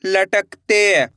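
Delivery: लटकते stretched out very slowly, sound by sound; slowly drawn out. Shown as a demonstration. Teacher modelling लटकते slowly for pupils. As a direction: draw out लटकते slowly for the class. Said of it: "अब आगे देखिए".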